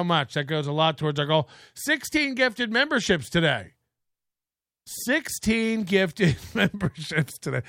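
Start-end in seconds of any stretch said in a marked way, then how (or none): 1.7-3.7 higher, lightly voiced streamer read; streamer impression. Imitating the streamer reading donations, light. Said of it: "I love doing that impression". 4.8-7.6 slow streamer read broken by laughter; laughing impression. Imitating the streamer, laughing mid-line. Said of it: "I love doing that impression".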